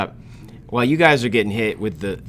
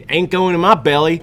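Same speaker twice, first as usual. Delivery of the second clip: put-on Southern teen voice; 4 semitones higher than usual. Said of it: "shitty Southern teen".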